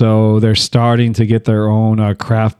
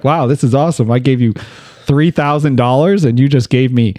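retold amazement; 4 semitones higher than usual. Acts delight at the money exchange.

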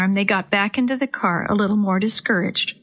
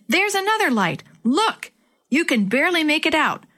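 excited yelling; 7 semitones higher than usual. A narrator's reading. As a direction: point it out urgently, voice pitched up. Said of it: "Chris yelled as he joined Sammy".

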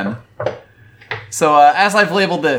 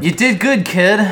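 gruff praise; 5 semitones higher than usual. Acted. Major compliments Togusa, acted quote.

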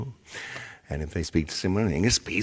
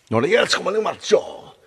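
high-pitched mock Spanish-speaker voice; Spanish-speaking caller; 13 semitones higher, 3 dB louder than usual. Baffled Spanish speaker hearing the bad agent, mock Spanish accent. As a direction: put on a rapid-fire Spanish accent, pitched way up. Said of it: "someone who speaks Spanish is like".

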